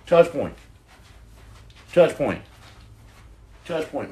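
panting between words; breathless from spinning; out of breath. Real, not acted. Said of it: "out of breath".

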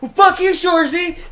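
very high, loud mocking retort; rival's chirp back. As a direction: fire back in a squeaky put-on voice. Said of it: "And he's like".

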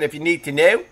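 a little Philly on "know"; light Philadelphia accent. Shown as a demonstration. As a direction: repeat it with a Philly vowel. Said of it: "that was a little Philly".

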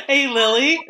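high squeaky imitation of a friend; high mocking call of a name.

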